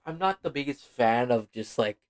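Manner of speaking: yawning mid sentence. Real, not acted. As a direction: talk through a yawn. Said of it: "sorry, I keep yawning".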